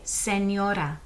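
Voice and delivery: Spanish señora with clear ny and tapped r; model pronunciation. Shown as a demonstration. Teacher models señora for students to echo.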